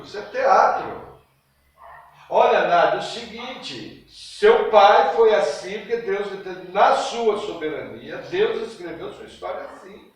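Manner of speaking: ordinary delivery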